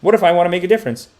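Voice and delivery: a naive well-meaner asking sincerely; earnest do-gooder. Retold or imitated. Imitating good people who want to enter politics, mock earnest. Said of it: "good people who are like".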